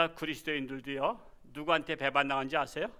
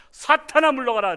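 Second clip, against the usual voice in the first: commanding rebuke; 7 semitones higher, 9 dB louder than usual. Shown as a demonstration. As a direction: shout it out high and loud. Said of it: "이렇게 말해야 되니까".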